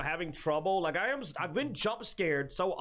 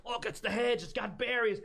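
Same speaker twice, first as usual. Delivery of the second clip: lightly hyped discovery, raised pitch; mildly overexcited; 5 semitones higher than usual. Retold or imitated. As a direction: point out a find with giddy interest. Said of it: "You get way too excited".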